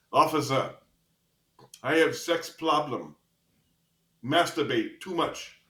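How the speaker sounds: slow, halting imitation of an Asian accent; rough Asian accent. Injured student confessing to officer in ambulance, imitated Asian accent. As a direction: attempt an Asian accent, phrase by phrase. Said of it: "don't do a really good Asian accent".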